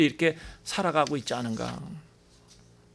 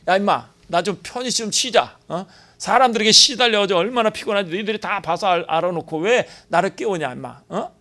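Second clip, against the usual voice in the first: higher, louder mock-grumbling at being woken; grumpy woken Jesus; 4 semitones higher, 4 dB louder than usual. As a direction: play a tired man snapping at his friends. Jesus voiced grumbling at disciples.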